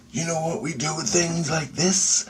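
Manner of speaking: high, rising rhetorical question; menacing question. Retold or imitated. Lady shows captured creature, high leading question. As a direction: retell her threat as a leading question.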